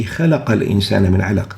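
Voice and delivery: "خلق" run quickly into "الإنسان", qaf unbounced; quick recitation, no strong accent on the q of "خلق"; no qalqala. Shown as a demonstration. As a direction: say "خلق" as khalaqa with a plain qaf. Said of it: "without really vibrating that qaf".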